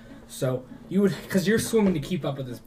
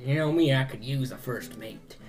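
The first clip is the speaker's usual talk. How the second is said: pirate captain. Acted.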